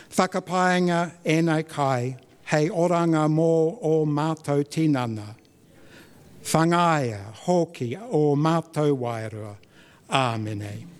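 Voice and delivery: unhurried, prayerful Māori blessing; spoken grace. Real, not acted. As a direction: offer the grace gently before the meal.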